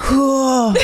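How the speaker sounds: drawn-out "whew" of mock shock; astonished whew, acted; exhaled whew. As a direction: let out a reacting whew. Reacting to friends' wild talk.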